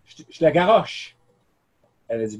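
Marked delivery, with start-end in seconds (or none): 0.0-1.2 lady puzzled. Retold or imitated. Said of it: "elle m'a dit".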